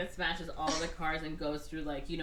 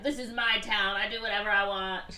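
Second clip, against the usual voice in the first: Wesley; 3 semitones higher, 4 dB louder than usual. Retold or imitated. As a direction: declare it like a mock town tyrant. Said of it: "Wesley's like".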